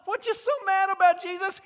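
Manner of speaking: loud, high mocking challenge; challenging Jesus. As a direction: throw the question at him, taunting. Voiced challenger questions Jesus.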